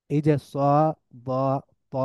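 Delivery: স, দ, ত with thick, heavy back "a"; heavy sounds. Shown as a demonstration. Teacher showing three thick letters, স, দ, ত said heavy. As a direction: make স, দ, ত full and emphatic. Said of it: "এই তিনটাই হচ্ছে মোটা sound".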